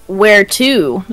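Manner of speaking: loud, booming giant beast; big booming dinosaur voice. Acted. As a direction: boom it out like a huge dinosaur. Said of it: "in my big booming dinosaur voice".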